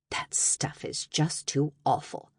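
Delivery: slow, mildly weary mom voice; sighing. A narrator's reading. Mom troubled by her daughter's work, lightly sighing. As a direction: let it out on a sigh. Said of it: "Mom sighed".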